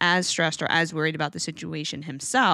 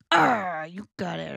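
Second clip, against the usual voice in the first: playful dog praise. Shown as a demonstration. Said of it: "or I'm like".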